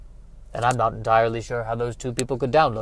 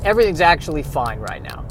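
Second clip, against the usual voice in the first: high, strained self-reassurance, mock near-tears; hammed-up brittle cheer, rising in pitch; tearful forced reassurance; 7 semitones higher, 6 dB louder than usual. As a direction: insist loudly that all is well while acting upset. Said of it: "I don't know why I'm crying".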